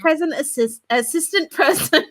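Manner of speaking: narration broken up by giggles; helpless laughter. Real, not acted. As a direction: struggle to read through laughing. Reader cracks up over slip.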